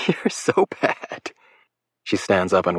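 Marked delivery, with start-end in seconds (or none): 0.1-1.3 breathless high teasing whisper; airy giggly whisper. A narrator's reading. Lake teasing Will about the prank, in a giggly whisper.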